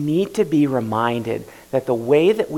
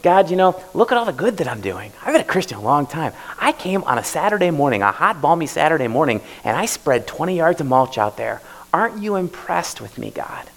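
louder, proud bragging to God; boastful prayer; 3 semitones higher, 3 dB louder than usual. Retold or imitated. Preacher mocking a proud churchgoer, boastful and loud. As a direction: puff up, show off your good deeds. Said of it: "maybe we go".

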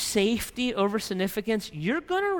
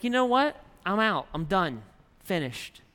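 mad God. Acted. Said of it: "he just kinda gets mad".

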